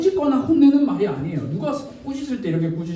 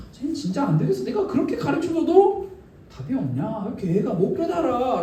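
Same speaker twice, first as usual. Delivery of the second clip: mock exasperation, pitched up then sagging; exasperated grumbling; 3 semitones higher than usual. Jesus grumbling to disciples about Thomas, mock exasperated. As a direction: complain about a hopeless pupil. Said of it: "핀잔을 하실 수도 있겠죠".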